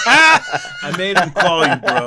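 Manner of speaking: laughing. Acted. Joking Judah's line, laughing.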